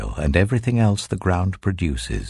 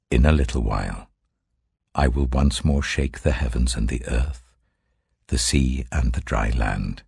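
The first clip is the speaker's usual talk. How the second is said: lower, solemn divine voice; a measured, lower voice of the Lord giving commands; 6 semitones lower than usual. Acted. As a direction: speak as God addressing his prophet, gravely. Voicing the Lord's words.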